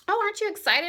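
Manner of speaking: high, loud, sing-song imitation of a gushing coordinator; mock gushing coordinator. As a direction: ham up the coordinator's sugary excitement. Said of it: "the coordinator at the venue was like".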